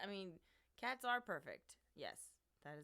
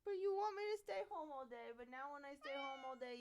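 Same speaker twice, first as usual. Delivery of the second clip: mock pleading; 4 semitones higher, faster than usual. Real, not acted.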